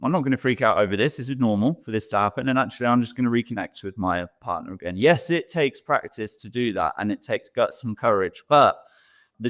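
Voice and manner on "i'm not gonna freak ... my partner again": calm self-talk. Retold or imitated. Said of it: "it's just knowing".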